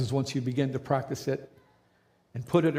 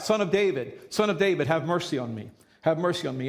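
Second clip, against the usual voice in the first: calling out; 3 semitones higher than usual. Retold or imitated. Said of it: "he begins to cry out".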